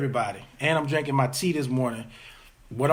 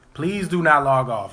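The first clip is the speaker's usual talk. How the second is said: urgent, louder appeal not to leave; louder urgent plea; 6 dB louder than usual. Real, not acted. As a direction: raise the voice and beg them to stay. Begging viewers to stay on.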